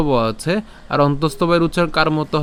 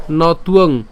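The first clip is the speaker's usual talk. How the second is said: slow, measured shloka chant; Sanskrit verse recitation; 3 dB louder, much slower than usual. Shown as a demonstration. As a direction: draw out each long vowel as you recite.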